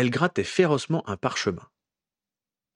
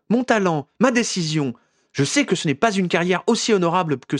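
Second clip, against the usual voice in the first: higher, louder defiant Ginny; passionate young woman; 9 semitones higher, 4 dB louder than usual. A narrator's reading. Ginny defends her career to Harry, higher and louder. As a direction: claim your own path with fire.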